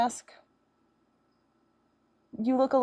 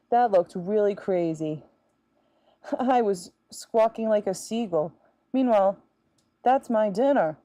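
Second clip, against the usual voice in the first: lightly voiced Siagigi. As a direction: greet fans as the fish girl Siagigi, mildly put on. Talks in character as Siagigi.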